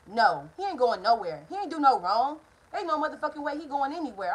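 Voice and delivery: mock-indignant mom; indignant refusal. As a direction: put your foot down as an outraged mother. Retold mother angrily refuses.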